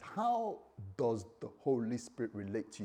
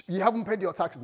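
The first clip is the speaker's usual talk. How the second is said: half-laughed shout, higher; playful accusation; laughing mock accusation; 5 semitones higher, 4 dB louder than usual. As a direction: tax collector accusing a churchgoer, laughing. Tax collectors accusing.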